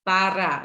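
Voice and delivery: "Pará" with the final "rá" stressed and held; tônica na última sílaba. Shown as a demonstration. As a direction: lean hard on the last syllable of "Pará". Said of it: "É o rá que você fala com mais intensidade". ("Pará" com mais intensidade no "rá" final)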